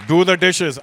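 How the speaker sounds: loud parental order; stern command. Retold or imitated. Dad ordering his kid to do the dishes, loud command. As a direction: bark it like a dad.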